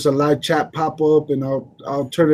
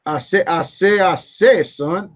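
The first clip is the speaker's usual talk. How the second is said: Foghorn Leghorn imitation. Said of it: "they talk like Foghorn Leghorn".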